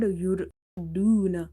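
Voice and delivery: يردون with a thick "ra"; heavy ra. Shown as a demonstration. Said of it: "Ra is heavy".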